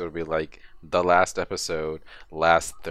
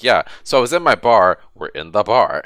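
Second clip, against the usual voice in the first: Quark impression; 10 dB louder than usual. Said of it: "he was just like".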